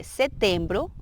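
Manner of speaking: SETEMBRO slowly, syllables clear; careful teaching model of "setembro"; "setembro" drawn out for learners; Portuguese month name. Shown as a demonstration. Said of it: "septiembre sería".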